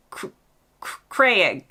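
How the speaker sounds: Craig with a longer drawn-out vowel, halting; attempted British Craig. Shown as a demonstration. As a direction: try a stretched-out UK Craig. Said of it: "I think you're supposed to say".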